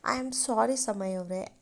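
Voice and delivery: soft, slow, a touch of sobbing; quiet, understated crying plea; mild tearful apology. Acted. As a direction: apologize through held-back tears. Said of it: "ಬಿಕ್ಕು ಬಿಕ್ಕುತ್ತಾ ಅಳುತ್ತಲೇ".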